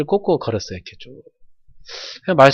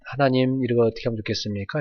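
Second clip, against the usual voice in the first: quiet prayer; 7 dB quieter than usual. Shown as a demonstration. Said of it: "이렇게 다".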